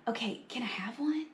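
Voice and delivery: soft, secretive whispered request; whispering. A narrator's reading. Buster asking Carla for a sandwich, whisper. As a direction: whisper it so nobody overhears. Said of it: "he whispered again".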